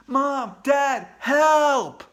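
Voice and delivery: high, loud call for help; panicked cry for help. Acted. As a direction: yell for parents in panic. Boy calls for parents in terror.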